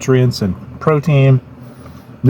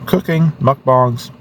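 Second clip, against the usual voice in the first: slow words around a bite; mouth full; 2 semitones higher, slower than usual. Real, not acted. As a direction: talk through a mouthful. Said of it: "talk with my mouth full because I'm eating".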